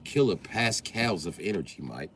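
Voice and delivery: British know-it-all sharing a fact; British explainer. Acted. White Briton teaching a cool dog fact, British accent. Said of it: "whenever white people wanna explain something to you".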